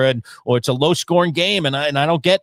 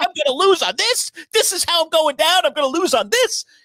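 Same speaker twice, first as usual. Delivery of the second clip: very high, panicked screaming and yelling; 13 semitones higher than usual. Retelling watching the game in the living room: retelling own panicked yelling. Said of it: "I'm screaming and yelling".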